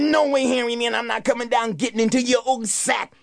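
put-on a boy refusing from the treetop; young Wally, stubborn and sure; defiant boy. Wally's voice up the tree.

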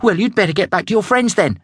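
high, fast irritated snap; quick high huffy retort; snapping young zebra. Acted. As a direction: brush him off sharply. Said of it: "snapped Julius".

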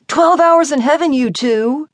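high, loud teasing announcement; hyped party guy. Acted. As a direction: announce it to whoop the crowd up. Guy announces the dare loudly.

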